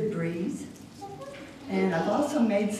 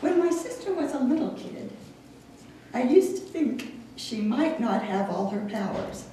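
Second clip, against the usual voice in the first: wry storytelling poem read to an audience; light comic verse, paused at line breaks; 3 semitones higher than usual. Acted. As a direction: recite it line by line, setting up the joke. Reads poem about sister.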